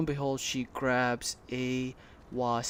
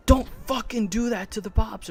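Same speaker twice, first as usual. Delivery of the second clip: high, louder mock outburst; imitated angry cussing; 8 semitones higher, 6 dB louder than usual. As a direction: snap it like the cussing customer. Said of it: "I think one guy cussed".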